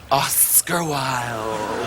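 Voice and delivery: slow, low, drawn-out name; grand introduction. Acted. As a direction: announce him like a star.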